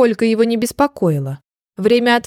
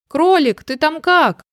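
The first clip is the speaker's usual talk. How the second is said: lightly concerned, higher pitch; caring question; 5 semitones higher, slower than usual. A narrator's reading. Hedgehog asking after rabbit in the tree, mildly caring. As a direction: check on a friend kindly. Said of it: "заботливо спросил ёжик".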